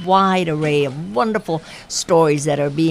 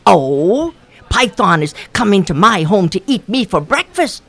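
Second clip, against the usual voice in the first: frightened Rabbit; 2 semitones higher, 4 dB louder than usual. Acted.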